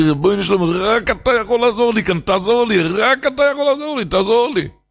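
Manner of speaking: acted, frantic, desperate screamed cry, pitched high. Retelling a man's prayer before a wave cast him out, retelling a desperate scream. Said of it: "אני צעקתי".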